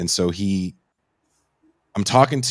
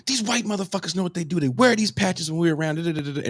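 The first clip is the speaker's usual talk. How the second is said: retold rant; 9 semitones higher, faster than usual.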